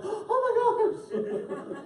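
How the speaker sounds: slow, high gasped oh my gosh; gasping awe. Retold or imitated. Reader voicing the wild things' amazement, slow and high. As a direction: draw it out in wide-eyed shock. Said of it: "They're like".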